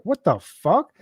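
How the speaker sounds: like he can't believe what's on screen; shocked outburst. Retold or imitated. To the man beside him, after seeing the torture film, a shocked high cry.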